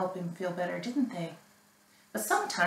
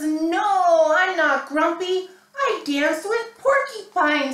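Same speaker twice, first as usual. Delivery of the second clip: a bit higher and louder, bright reply; lightly voiced Norman; 6 semitones higher, 8 dB louder than usual. Norman answers Jim in a slightly raised voice. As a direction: play Norman as cheerful.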